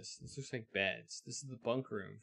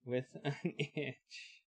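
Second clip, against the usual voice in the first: put-on old western blacksmith; 4 semitones higher than usual. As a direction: hail the stranger like a busy old smith. Player voices old western blacksmith.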